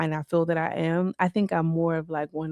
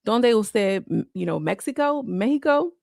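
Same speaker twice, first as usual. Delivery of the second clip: raised inquiring voice; 4 semitones higher than usual. Retold or imitated. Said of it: "So I'm like".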